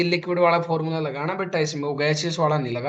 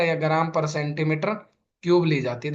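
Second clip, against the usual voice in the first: gram per centimeter cube drawn out word by word; slow dictation; slower than usual. Shown as a demonstration. Teacher to class, slowly dictating the unit. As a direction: spell the unit out slowly so students can write.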